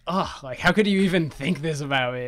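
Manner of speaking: mildly hammed-up teenage indignation; an offended "ugh" from a snooty teen, imitated; snooty high schooler. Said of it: "like, the snooty high schooler I am".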